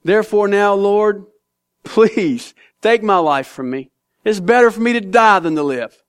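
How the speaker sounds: sarcastic Jonah. Acted. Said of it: "you can hear the sarcasm".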